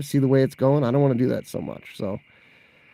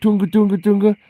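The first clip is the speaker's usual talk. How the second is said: plunger noise; 5 semitones higher, 4 dB louder than usual. Retold or imitated. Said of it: "So you're like".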